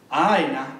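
a lightly voiced old minister, low and short; grandfather, low. Grandfather about to dunk the boy, low and curt.

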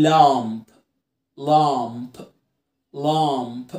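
لامب with the p clearly released after m; low, deliberate لامب, final p popped; pronounced final p. Shown as a demonstration. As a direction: finish لامب on an audible p. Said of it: "لكن لو البي تقيلة انطق الايه؟".

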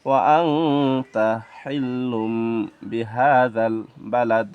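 slow, stretched verse recitation; measured Arabic recitation; Quran recitation. Shown as a demonstration. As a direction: recite slowly, holding the nasal sounds and long vowels.

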